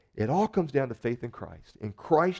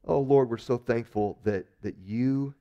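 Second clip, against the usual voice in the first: earnest, steady prayer voice; closing prayer. Acted. Pastor praying for the congregation, earnest prayer. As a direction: pray sincerely over the congregation.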